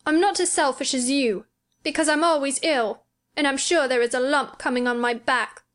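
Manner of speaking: put-on plaintive child feeling sorry for himself; self-pitying. A narrator's reading. Sick boy lists his ailments to girl, self-pitying. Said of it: "beginning to feel pathetic and sorry for himself".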